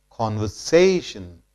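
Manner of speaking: "Conversation" as con-ver-SAY-shun, falling at the end; stress on SAY. Shown as a demonstration. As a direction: lean on SAY in "Conversation". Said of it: "more stress is laid on syllable say".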